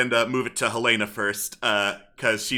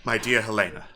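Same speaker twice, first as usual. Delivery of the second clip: solemn, measured letter reading with long pauses; father's farewell letter; 2 semitones lower than usual. Acted. Reads a father's letter aloud in character.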